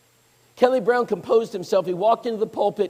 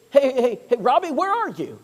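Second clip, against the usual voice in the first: urgent sister; 5 semitones higher than usual. Retold or imitated. Sister on phone hunting for her brother, urgent. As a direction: sound the alarm like a panicked sister.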